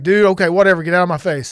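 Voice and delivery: mildly irritated, acted retort; retold annoyance. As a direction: replay being fed up with the doctor. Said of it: "I wasn't happy".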